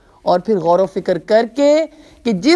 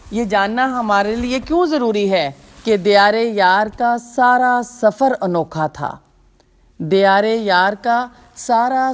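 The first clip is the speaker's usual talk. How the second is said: poetry recitation. Acted. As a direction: recite the couplet with feeling. Recites a verse couplet.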